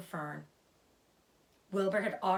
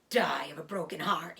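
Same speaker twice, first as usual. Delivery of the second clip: mimicking; 3 semitones lower than usual. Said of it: "he mimicked".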